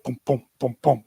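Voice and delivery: low, soft thumping booms; imitated heartbeat. Imitating his pounding heart.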